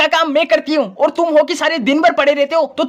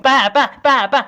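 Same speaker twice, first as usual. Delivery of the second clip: put-on child calling; slower than usual. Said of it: "child voice calling papa again".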